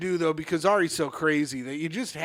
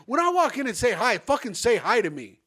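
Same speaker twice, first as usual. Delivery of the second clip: raised-pitch mock scolding; retold telling-off; 4 semitones higher than usual. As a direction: replay yelling at a coworker. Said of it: "I yelled at Ari later".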